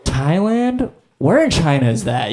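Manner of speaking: clueless diner blurting a question; baffled customer. Acted. Acting clueless customers at Thai restaurant.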